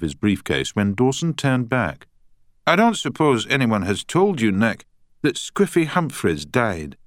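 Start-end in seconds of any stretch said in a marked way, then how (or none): 2.7-7.0 put-on Scottish accent. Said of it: "in a strong Scottish accent".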